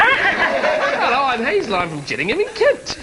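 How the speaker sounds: mock dating-show contestant intro; laughing imitation, starts high then drops; Hazel as Blind Date contestant. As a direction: parody a contestant introducing herself. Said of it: "you sound like you're on blind date".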